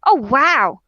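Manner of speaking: overly delighted gush, drawn out slowly; gushing butcher. Acted. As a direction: fake admiration to cover up. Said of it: "he goes".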